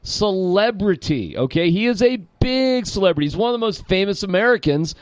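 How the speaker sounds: emphatic, drawing out the key word; all serious. Real, not acted. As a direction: lay it out in earnest, point by point. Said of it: "To go all serious".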